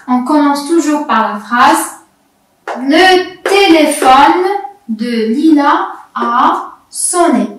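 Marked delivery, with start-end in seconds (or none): 2.8-7.5 slow model reading. Shown as a demonstration. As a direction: lecture lente, mot à mot. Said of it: "Je vais lire une petite phrase". (lecture modèle lente)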